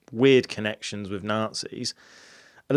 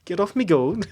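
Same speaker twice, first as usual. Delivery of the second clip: Welsh dragon voice; 8 semitones higher than usual. Pretend. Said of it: "No, I don't know what accent".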